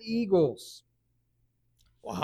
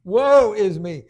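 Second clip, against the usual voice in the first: grieving cry; 10 dB louder, slower than usual. Acted. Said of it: "The grief of standing before the holy God".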